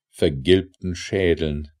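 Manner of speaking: ordinary delivery, nothing marked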